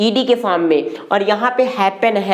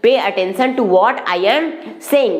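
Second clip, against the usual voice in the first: very slow, each word spaced; drawn-out classroom model phrase; slow teaching demo; much slower than usual. Shown as a demonstration. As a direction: model the sentence slowly for learners. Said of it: "तो क्या हो जाएगा".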